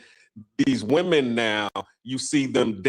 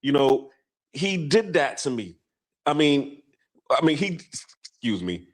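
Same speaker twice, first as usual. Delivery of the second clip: higher, pleading excuses; imitating a scared man's raised, helpless excuses; defensive man; 5 semitones higher than usual. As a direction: whine that he had no choice. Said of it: "He was like".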